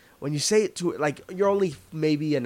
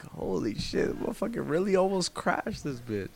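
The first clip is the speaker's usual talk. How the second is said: hushed disbelief; 2 semitones higher, 6 dB quieter than usual. Retold or imitated. Stunned after near crash.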